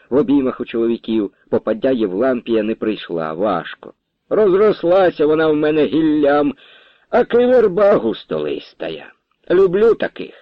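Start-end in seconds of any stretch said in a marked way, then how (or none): 4.3-10.3 lightly voiced old woman. Old woman admiring her spreading tree, high and fond.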